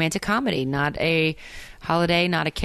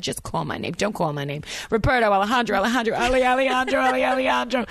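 dramatic Jersey reading; 5 semitones higher, faster than usual. Acted. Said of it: "cheesy big bad".

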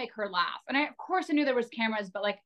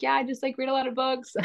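mock pretentious claim; 4 semitones higher than usual. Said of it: "I'm sitting here being like".

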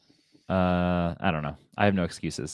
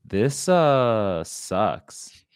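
drawn-out mock Italian accent; 3 dB louder, much slower than usual. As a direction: put on a playful Italian accent. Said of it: "was that an Italian accent".

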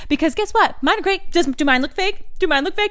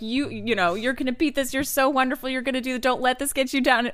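softer, gentle reassurance; tender; 4 dB quieter than usual. Retold or imitated. Stranger hugging them goodbye, softly reassuring. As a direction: say it softly during a hug. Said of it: "hugs all around".

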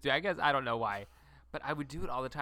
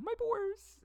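mock Cockney. Sudden mock Cockney tag.

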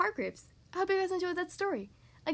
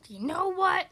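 loud, higher, jolly dragon voice; cheerful boom; 4 semitones higher, 6 dB louder, slower than usual. Acted. Happy dragon to Mister Tickle, cheerful booming. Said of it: "he boomed cheerfully".

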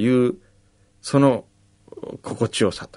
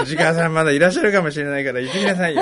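gravelly voice; 4 semitones higher, faster than usual. Retold or imitated. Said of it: "そんなダミ声で言ってない".

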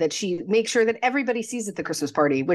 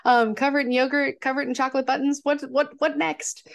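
higher, mock-exasperated rant at the fussy clerk; exasperated Harry; 5 semitones higher than usual. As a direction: pile on the disbelief, voice pitched up. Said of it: "And he's like".

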